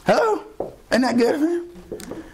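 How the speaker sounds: high, then slow delighted question; preacher rousing the congregation; exclaimed hello. Real, not acted. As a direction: shoot up high to rouse the room. Rhetorical call to the congregation.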